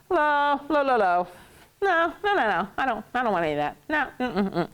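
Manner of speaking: quick, chattering refusals; dismissive string of no's; brushing off a seller. Acted. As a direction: wave off a pushy vendor, tripping over the no's. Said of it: "So you can say".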